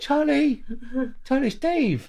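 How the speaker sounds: high, forced tough cockney call; gangster South London voice. Retold or imitated. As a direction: try to sound hard, failing high. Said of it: "my best gangster South London voice".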